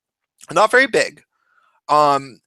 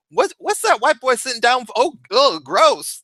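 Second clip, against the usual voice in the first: high-pitched mock disgust; disgusted passer-by; 8 semitones higher than usual. Passer-by seeing the bloody pool, hammed-up disgust. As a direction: play a grossed-out onlooker stumbling on it.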